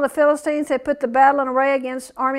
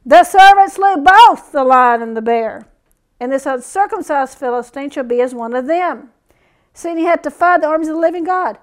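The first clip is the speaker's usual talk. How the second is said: proclaimed reread; 7 dB louder than usual. Shown as a demonstration. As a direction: thunder the verse out. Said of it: "repeats the verse".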